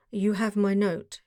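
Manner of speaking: a lightly voiced heavy German accent, deep and harsh. Masked Count asks Holmes about his note, in a harsh German accent. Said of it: "with a deep, harsh voice and a strongly marked German accent".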